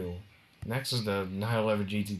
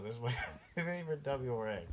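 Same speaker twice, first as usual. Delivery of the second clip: real chuckle breaking into the words; trying to carry on while giggling; laughing; 2 semitones higher, 4 dB quieter than usual. Real, not acted. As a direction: talk through a suppressed giggle. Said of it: "I'm laughing".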